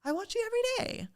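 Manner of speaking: high, fast breathy-free fan voice of the singer; imitating the singer. Imitating the star saying she watches them, high and fast. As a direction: impersonate her sweet quick words. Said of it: "she grabs my hands and she says".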